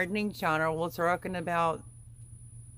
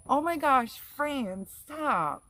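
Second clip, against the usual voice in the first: high, loud excited protest; excited squeal; 8 semitones higher, 4 dB louder, much slower than usual. Real, not acted. Host squealing at a teasing viewer, excited. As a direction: playfully beg her to stop.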